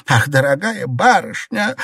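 mock her with false praise. A narrator's reading. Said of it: "насмешливо воскликнула Цзиньгуй".

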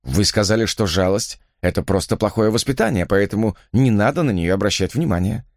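ordinary delivery, nothing marked

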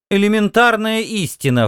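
high, scornful Martian woman; snorting dismissively. Acted. Woman snorts at the earth visitors, high and scornful. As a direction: sniff it out with contempt. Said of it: "фыркнула она".

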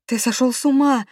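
high, loud sobbing outcry; wife sobs at attacking husband; sobbing cry. A narrator's reading. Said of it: "зарыдала я".

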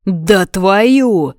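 резкий вскрик от боли; выкрикни, будто укусили; взвыл от боли. A narrator's reading. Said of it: "взвыл Кейден". (вскрик от укуса)

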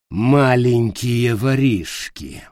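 low, husky, slow exclamation; a throaty witch calling out thieves. Acted. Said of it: "низким, с хрипотцой голосом".

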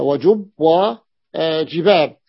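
slowly spelling out وجب وجباب; drawn-out teaching delivery; slow model words. Shown as a demonstration. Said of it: "pattern demo".

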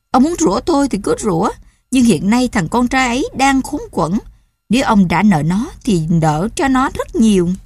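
heated retort. Acted. Wife answers husband's cursing.

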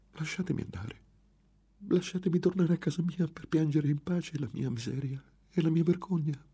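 voce alta e implorante di giovane donna; ragazza supplicante. A narrator's reading. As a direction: supplica il suo aguzzino di lasciarla andare. Victim pleads with the monk. (la vittima implora disperata)

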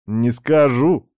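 slow, drawn-out refusal; slow teasing. Acted. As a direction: stretch each word lazily. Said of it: "покачал он головой".

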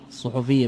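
الصحفية as aṣ-ṣuḥufiyya, ḍamma on ṣu and ḥu; الصحفية بضمتين; form with two dammas. Shown as a demonstration. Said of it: "بضمتين".

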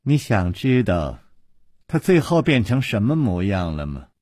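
gloating menace. A narrator's reading. Villainess taunts after cackling.

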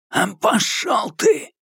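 high, slow, drawn-out yell of defiance; cornered thug's high yell; defiant shout. A narrator's reading. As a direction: spit it back at him. Eddie defies Kurtz.

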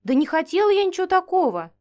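flustered babble. Acted. Heroine denies wanting the dragon's tail, flustered babble. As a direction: gabble it out in embarrassed confusion. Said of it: "растерянно пролепетала".

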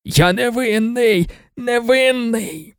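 high, drawn-out desperate cries; frantic protest. A narrator's reading. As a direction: wail your innocence as they drag you out. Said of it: "який далі шаленів".

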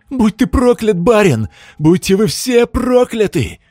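high, loud, slow hysterical yell; hysterical scream. A narrator's reading. Man burning at the stake screams hysterically at the lord. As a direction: howl it, losing his mind.

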